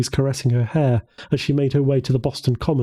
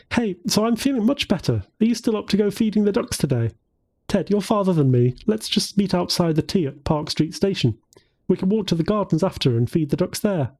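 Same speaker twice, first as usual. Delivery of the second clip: put-on raised, bright young woman; 6 semitones higher than usual. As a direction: lift the pitch for Jennifer. Jennifer calls Ted cheerfully.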